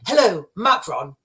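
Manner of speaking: rough attempt at a politician's greeting; lightly mimicked British leader on a call; Keir Starmer. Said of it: "I don't even know what Keir Starmer's accent is".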